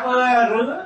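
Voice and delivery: light Quảng Nam Vietnamese; Quảng Nam dialect. Retold or imitated. Comedian imitates a Quảng Nam local, lightly accented. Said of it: "tiếng Quảng Nam nói".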